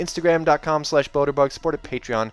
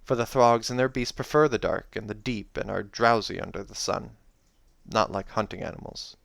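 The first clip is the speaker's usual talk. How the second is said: story narration; 3 semitones lower than usual. A narrator's reading. Reads a fantasy novel aloud.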